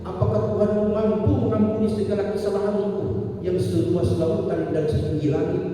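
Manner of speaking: put-on confessing drunk man. Drunk man confesses to the sheikh, high and half-sung. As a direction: lament your sins, rising to a cry.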